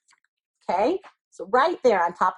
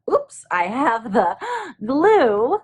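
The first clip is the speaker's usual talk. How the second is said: slow, a gasp breaking into the word glue; surprised gasp; 3 semitones higher, slower than usual. Real, not acted. Teacher noticing the glue, with a small surprised gasp. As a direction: catch your breath mid-sentence at the mistake. Oops, glue on wrong side.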